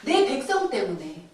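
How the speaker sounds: ordinary delivery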